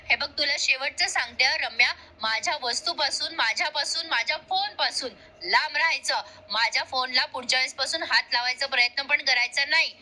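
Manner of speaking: restrained, mock-angry final warning; annoyed warning. Kavya warning her off her phone, mildly acted anger. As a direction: lay down the law with a touch of irritation. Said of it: "Kavya एवढी चिडून बोलते".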